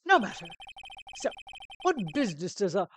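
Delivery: lightly theatrical haughty voice; pompous CEO, dismissive. Acted. CEO asking the lawyer's business, haughty and dismissive. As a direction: wave the visitor off grandly.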